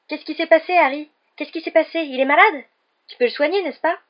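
high, loud, excited questioning; agitated questions. A narrator's reading. Colin bounding around Harry and sick Ron, agitated. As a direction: pepper him with anxious questions.

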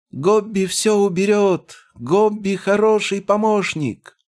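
very high, slow goblin shout; eager goblin calling after them; shouting farewell. A narrator's reading. (громкий крик гоблина вслед)

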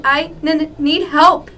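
stammering mock plea for help; a touch of trembling, halting words; shaky stammer. Jack begs Cry for help, shakily stammering. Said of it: "he said shakily".

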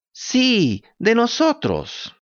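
high, slow drawn-out cat echo. A narrator's reading. Cat echoes.

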